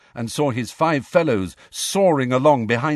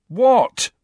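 high, louder one-word query; sharp questioning; 12 semitones higher, 5 dB louder than usual. A narrator's reading. Harry to his staring friends, sharp questioning. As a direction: pitch jumps up on a puzzled question.

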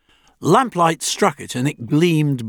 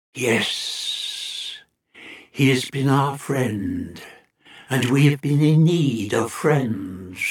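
slow hissing alien whisper; 2 semitones lower, 3 dB quieter, slower than usual. A narrator's reading. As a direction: breathe it out like an alien. Alien speaks after hissing.

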